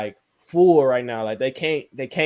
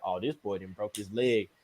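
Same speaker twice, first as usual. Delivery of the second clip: murmured gossip; 5 semitones lower, 9 dB quieter than usual. Retold or imitated. Coaches murmuring about injury.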